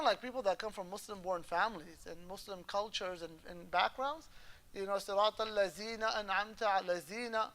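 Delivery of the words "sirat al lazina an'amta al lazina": "al-lazina" with z in place of dh. Retold or imitated. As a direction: imitate a misreading, buzzing z in "al-lazina". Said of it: "A person reading al-lazina".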